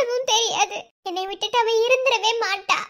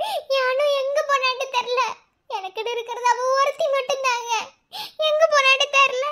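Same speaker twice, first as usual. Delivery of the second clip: crying. Acted. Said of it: "ஆ, அழுகாதீங்க".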